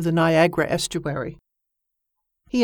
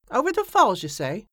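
surprised; 4 semitones higher than usual. Acted. Mate surprised at barrel news.

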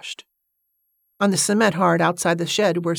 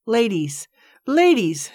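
eager welcome; 6 semitones higher, slower than usual. Acted. Greeting the ladies warmly.

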